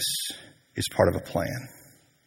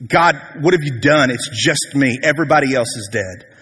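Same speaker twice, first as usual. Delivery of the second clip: plaintive appeal, a touch raised; mock desperate complaint; 3 semitones higher than usual. Elijah calling out to God alone, mildly desperate complaint. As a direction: protest to God with mild hammed-up despair. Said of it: "he's calling out to God".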